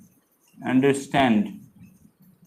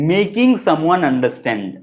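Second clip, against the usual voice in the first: slow teaching delivery; much slower than usual. Shown as a demonstration. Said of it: "বোঝানো মানে".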